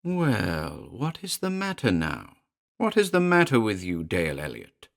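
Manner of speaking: a small demon taunting coldly; a lightly voiced cold imp; cold little demon. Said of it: "stared coldly up at him".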